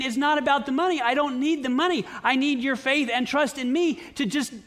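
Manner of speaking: a hint of a gentle divine voice; God's voice. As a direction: speak as God reassuring his child. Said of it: "I see God saying".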